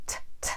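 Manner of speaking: breathy, puffed t sounds; aspirated t. Shown as a demonstration. Teacher demonstrating aspirated Irish t's. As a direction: push air after each t. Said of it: "aspirate your T's".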